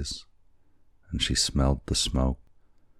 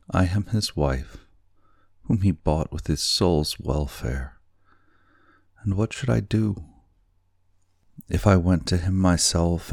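put-on young wife voice; 3 semitones higher than usual. Kokua's voice in story.

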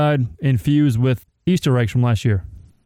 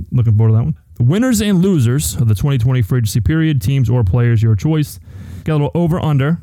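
hype host; 3 dB louder than usual. Acted. Hypes the show lineup.

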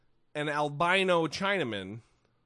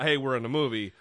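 terse loud reprimand; 4 dB louder, faster than usual. Retold or imitated. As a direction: imitate a curt, contained telling-off. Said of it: "a very terse, loud, communicative whisper".

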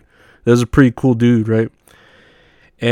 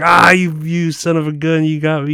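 goofy busted voice; 5 semitones higher than usual. Retold or imitated. Retelling own reaction to fake-out.

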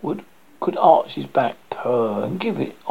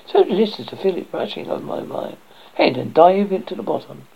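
eager duckling; 5 semitones higher than usual. Acted. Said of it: "said the duckling".

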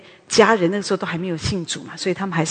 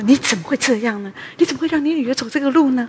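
mock scolding; 6 semitones higher than usual. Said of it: "就骂我爸爸说".

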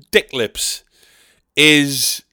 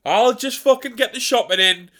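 martyred whinge; 4 semitones higher than usual. Acted. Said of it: "instead of just saying".

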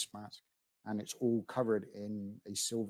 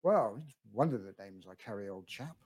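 put-on elderly voice. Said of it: "an elderly voice".

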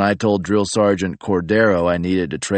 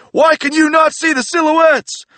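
much higher, loud macho yelling; furious macho drill sergeant; 6 dB louder than usual. Retold or imitated. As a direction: scream at the recruit like Randy Savage. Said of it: "losing his fucking mind".

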